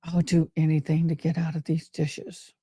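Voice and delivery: lightly voiced girl stuck doing dishes; weary young girl. Girl at the sink wishing to escape, mildly sighing. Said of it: "I was like".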